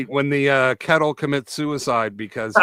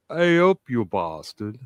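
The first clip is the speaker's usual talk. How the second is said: failed attempt at a northern English accent; hesitant, badly faked northern English accent; botched northern English accent. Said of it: "What the fuck was that?".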